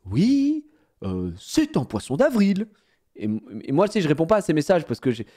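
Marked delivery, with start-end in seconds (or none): 0.1-2.7 high, mocking voice of the commenters; mock silly reply. Mocking the fans who sent messages, high parody voice.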